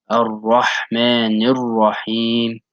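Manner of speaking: "Ar-Rahmanir Rahim" slowly, with the ha from a compressed throat; slow recitation. Shown as a demonstration. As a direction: recite slowly, pushing air for the ha. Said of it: "you also compress your throat".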